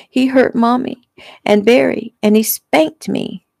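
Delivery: put-on a scared little girl whispering to her sister. A narrator's reading. Young sister whispering to Bree, high and hushed. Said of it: "Jeffy whispered".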